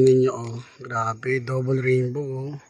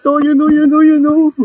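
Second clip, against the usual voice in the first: excited; 8 semitones higher, 6 dB louder than usual. Real, not acted. Pointing excitedly at rainbow.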